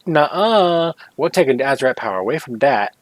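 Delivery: a light, unnamed put-on accent, a bit quick; mock Blizzard in a vague put-on accent. Imitating Blizzard taking the power away, in a put-on accent. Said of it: "I'm doing that in that accent".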